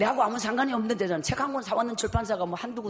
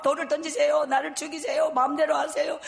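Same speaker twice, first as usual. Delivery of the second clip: raised, loud surrender cry; 6 semitones higher, 4 dB louder than usual. Retold or imitated. Praying alone in the prayer house, loud cry. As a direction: throw yourself down before God. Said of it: "막".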